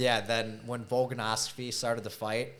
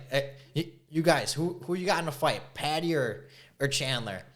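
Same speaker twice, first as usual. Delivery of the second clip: fake British accent; 5 semitones higher than usual. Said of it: "make a fake British accent".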